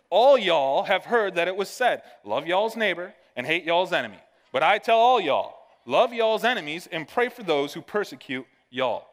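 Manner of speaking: playful Southern twang on every y'all; Southern lingo. Shown as a demonstration. Pastor reading a verse aloud, hammed-up Southern style. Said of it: "I added our Southern lingo to it".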